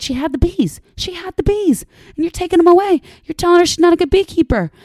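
high, loud indignant rant; indignant outburst. Real, not acted. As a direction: defend her loudly and indignantly. Outraged on the woman's behalf.

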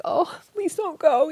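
pleading. Retold or imitated. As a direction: stretch it out, begging him to stay. Begging husband to stay.

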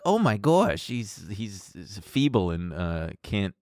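nerdy voice. Retold or imitated. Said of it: "like, little nerdy".

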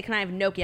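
"gnocchi" said as NOKE-ee; plain American "gnocchi" with a bare N, no NY sound; Anglicized pronunciation. Shown as a demonstration. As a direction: say "gnocchi" as NOH-kee. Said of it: "would also never say".

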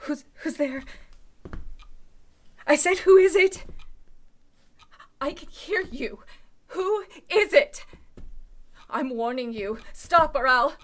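scared voice, close to tears; fearful warning to an intruder; frightened. Acted. Alone in the dark, warning the intruder, frightened.

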